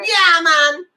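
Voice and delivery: playful mock Jamaican call; Jamaican accent. Host playfully greets guests, mock Jamaican accent. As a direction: lightly put on a Jamaican accent. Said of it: "say it in a Jamaican accent".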